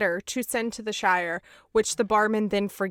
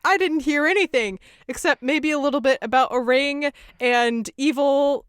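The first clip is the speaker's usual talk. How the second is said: higher-pitched mock protest; imitated flustered denial; 5 semitones higher, 4 dB louder than usual. Gardener caught eavesdropping answering the wizard, imitated flustered protest. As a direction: blurt out a put-on denial, pitched up.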